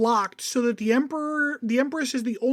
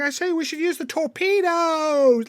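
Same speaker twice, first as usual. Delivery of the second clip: bad Irish accent; 5 semitones higher than usual. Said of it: "I can't even do that crappy of an Irish accent".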